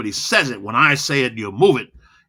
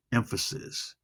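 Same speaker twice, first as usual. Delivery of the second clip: whispered; 13 dB quieter, slower than usual. Shown as a demonstration. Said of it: "Loud and slow creates emphasis".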